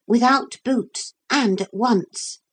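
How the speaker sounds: put-on high, firm child character; a young leader adding instructions; boy giving orders. Philip giving orders to captain.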